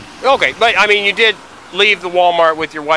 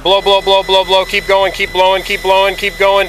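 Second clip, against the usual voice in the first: urging blow count; 4 semitones higher than usual. Shown as a demonstration. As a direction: push them to keep blowing. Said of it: "let's do a practice run".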